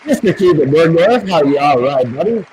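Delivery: high, loud winner call-out; hyped giveaway announcement. Real, not acted. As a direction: announce the winner like a game show host. Calling out the second winner.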